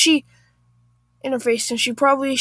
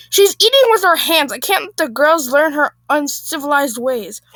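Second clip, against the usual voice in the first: indignant Karen; 3 semitones higher, 3 dB louder than usual. Acted. Acted Karen complaining to husband.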